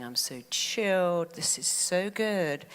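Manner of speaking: slow, savoring contentment; chilled self-talk. Retold or imitated. Coach retelling her talk to herself in the scanner, chilled. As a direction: stretch it out, relaxed and content. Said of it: "I was going".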